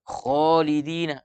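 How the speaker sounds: kholidina with a thick, drawn-out kho; heavy kho in kholidina. Shown as a demonstration. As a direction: raise the tongue root for a full kho. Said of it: "Maka harus tebal".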